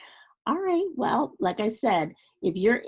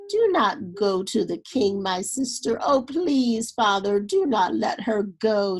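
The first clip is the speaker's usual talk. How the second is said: hysterical pleading; 4 dB louder than usual. Acted. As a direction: beg them not to go, near panic. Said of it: "she cried hysterically".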